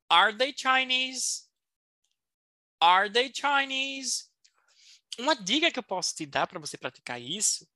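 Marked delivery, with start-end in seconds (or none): 0.1-1.5 slow model question. Shown as a demonstration. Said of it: "entonação". 2.8-4.2 whispered model question. Shown as a demonstration. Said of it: "entonação".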